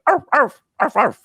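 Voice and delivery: high yapping little dog; yappy panting puppy. Retold or imitated. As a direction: yip like a tiny chihuahua. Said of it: "And he went".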